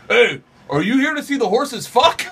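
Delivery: high, loud, slow call. Retold or imitated. Two Mexican guys walk out of the barn, calling out. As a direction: hail them like an eager showman.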